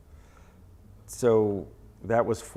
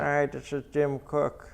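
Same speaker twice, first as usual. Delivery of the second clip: higher, drawn-out comic impression; Jim Cook's funny voice; 7 semitones higher, slower than usual. Photographer showing interviewer a brewer's funny voice, high and slow. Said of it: "He has a really funny voice".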